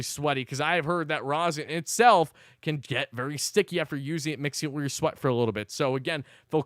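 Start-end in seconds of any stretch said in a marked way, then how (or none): none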